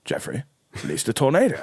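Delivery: calm pause, then press the order; insistent repeat. Retold or imitated. God overrules Jeffrey's objection, insistent.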